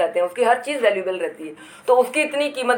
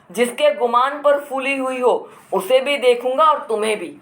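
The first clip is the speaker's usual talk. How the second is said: a hint of a menacing brother-in-law; lightly voiced angry threat; threatening anger; 3 semitones higher than usual. Brother-in-law threatens his sister-in-law, mildly angry. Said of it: "अब वो गुस्सा दिखाकर बोल रहा है".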